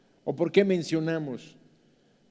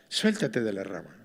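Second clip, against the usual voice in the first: God's command; 9 semitones lower than usual. Retold or imitated. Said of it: "y le dice".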